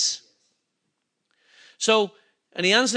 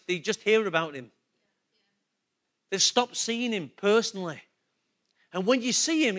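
ordinary delivery

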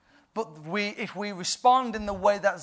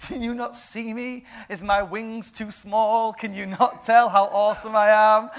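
mock-offended, higher playful angel; indignant angel; 4 semitones higher, 4 dB louder than usual. Gabriel teases Zechariah, mock-indignant. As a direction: act hurt that he isn't recognised.

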